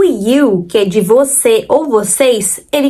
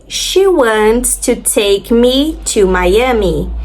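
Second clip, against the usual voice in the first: slow, careful English model reading; a teacher reading the example sentence very slowly; much slower than usual. Shown as a demonstration. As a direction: spell it out slowly for learners. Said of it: "a primeira delas".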